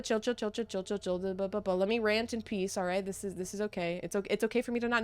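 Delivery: soft, rapid muttered reassurance; self-soothing. Real, not acted. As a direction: talk yourself down under your breath. Calming self down after spoiler rant.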